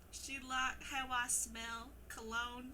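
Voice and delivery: put-on slow lyric read, southern accent. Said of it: "Read the Baby lyrics in your southern accent".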